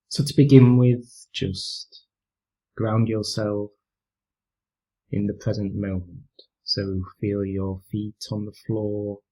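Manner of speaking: calm, unhurried meditation voice with long pauses; guided meditation. Real, not acted. Teacher leading listeners through a mindfulness practice, calm guided meditation. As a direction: gently guide them through breathing and body awareness, leaving space between phrases.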